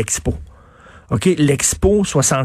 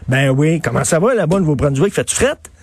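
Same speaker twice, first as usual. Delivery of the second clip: friendly questioner. Retold or imitated. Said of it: "friendly chat quoted".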